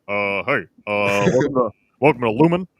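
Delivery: lightly voiced Obama with pauses; Obama impression. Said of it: "I can't do an Obama".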